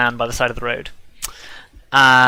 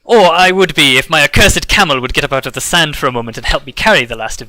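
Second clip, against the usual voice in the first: merchant Dagran; 4 dB louder than usual. Acted. Merchant greets the travelers, lightly voiced and courteous. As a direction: greet the travelers with a showy bow in the voice. Merchant complains about camel.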